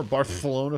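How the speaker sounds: "Barcelona" with a big lisped TH for the C; exaggerated lisp. Shown as a demonstration. Streamer mocking Barcelona fans, lisping "Barcelona" as Barthelona. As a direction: lisp the middle of "Barcelona" into a long th. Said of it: "say it with nine T Hs in the middle".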